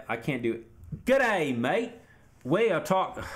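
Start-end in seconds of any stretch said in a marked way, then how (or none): 1.1-3.2 loud, high, hammed-up Aussie; terrible Australian accent. Streamer retrying his Leroy impression, hammy Australian accent. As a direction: push a badly faked Australian accent, swooping up high. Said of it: "That's a terrible accent".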